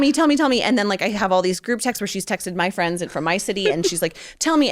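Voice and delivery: mock-pester her for the name; insistent demand. Friend demanding over text.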